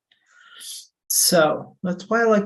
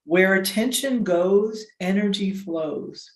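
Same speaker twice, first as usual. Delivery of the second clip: slow recited saying. Retold or imitated. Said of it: "sayings that I heard".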